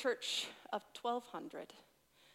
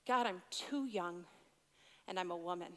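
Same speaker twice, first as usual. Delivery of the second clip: mild tearful plea; 7 semitones lower, 6 dB quieter than usual. Retold or imitated. Retelling her tearful answer to God, softly pleading. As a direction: plead quietly, close to crying. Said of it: "audibly saying to God".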